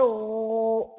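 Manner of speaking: ओ voiced from the throat with no air; gargled gho sound. Shown as a demonstration. Teacher demonstrating the gargled letter sound. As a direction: let ओ come out like a gargle. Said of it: "ओ की sound आती है".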